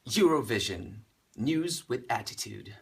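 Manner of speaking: sign-off in put-on British accent; careful British announcer, pausing between phrases. Singer delivering the blog's tagline on request, British accent. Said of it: "in a very British accent".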